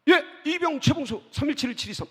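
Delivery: crisp soldier reporting name and number; korean military style. Retold or imitated. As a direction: snap it out like a private. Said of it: "툭 치면 일어나서".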